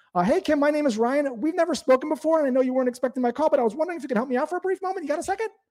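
very high, rapid, rushed rising uptone. Demonstrating the wrong way to call Kim, the speaker uses uptone, really fast. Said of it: "with that uptone and really fast".

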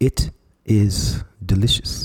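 very slow, deliberate, word-by-word delivery. Talking up biltong over beef jerky, spoken very slowly. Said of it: "I'm going to speak very slowly".

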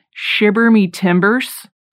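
disappointment edging into near disgust. Retelling a six-year-old's reply to a question: imitating disgusted disappointment. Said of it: "with such disappointment and, like, just almost, like, disgust".

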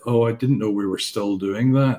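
plain

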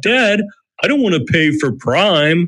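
put-on teenage boy voice. A dad retelling his son's reply about getting his own account, imitating a teenage son. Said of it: "So that's my teenage impersonation".

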